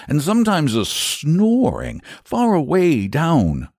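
high-pitched, uneasy country storyteller; shepherd recounting eerie noises; troubled shepherd. Acted. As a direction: tell it as a worried rustic shepherd.

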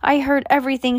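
high, scolding call; mild yell. A narrator's reading. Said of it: "she yelled".

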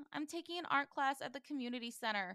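lightly acted confession; confessing. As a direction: give in and own up, a touch meek. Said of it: "gives in and tells the truth".

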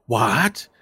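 loud mock-outraged "what?", rising; shocked opponent. Game master voices foe after being hit, loudly incredulous. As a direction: blurt it in acted disbelief. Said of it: "he, he, he goes".

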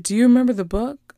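put-on young niece. Niece asking her aunt about a promised book, lightly imitated child. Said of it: "she's about, like, seven or eight".

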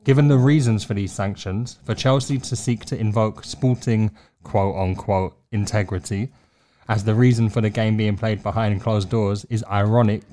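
formal statement reading; statement read aloud. Acted. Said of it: "so here goes".

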